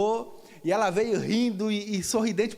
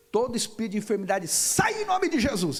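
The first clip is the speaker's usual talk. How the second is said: commanding prayer. Retold or imitated. Pastor casting out a spirit of sickness, commanding cry. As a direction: start fast, then raise the pitch and stretch the command.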